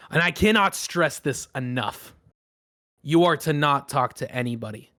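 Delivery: lightly voiced commanding captain, firm emphatic openings; stern ship captain. Captain addressing everyone on the dock, stern and commanding. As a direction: lay down the ship's rules like a captain.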